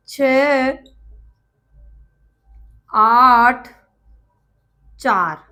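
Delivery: "छह", "आठ", "चार" each set apart by long pauses; slow dictation, one digit at a time. Shown as a demonstration. Teacher to students, reading digits one by one with pauses. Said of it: "छह सौ चौरासी नहीं पढ़ के".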